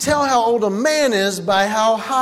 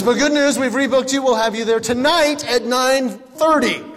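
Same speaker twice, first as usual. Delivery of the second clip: chipper agent; 3 semitones higher than usual. Retold or imitated. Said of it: "He says".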